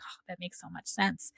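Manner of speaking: whispery, soft reply; hushed relief. Retold or imitated. Friend answering the reading, in a relieved whisper. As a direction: breathe it out in a relieved hush.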